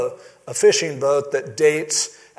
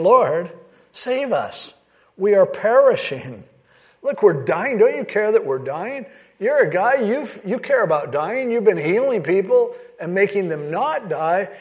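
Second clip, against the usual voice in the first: high, urgent plea of men about to drown; panicked disciples; 4 semitones higher than usual. Acted. Disciples crying out to sleeping Jesus, high and panicked. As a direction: beg for your life over the storm. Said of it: "They're freaking out".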